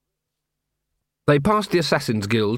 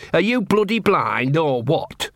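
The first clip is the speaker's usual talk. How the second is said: slow, higher-pitched dog character; exasperated talking dog; 4 semitones higher, slower than usual. Acted. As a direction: complain slowly as a fed-up dog, pitched up. Exasperated dog addresses the men.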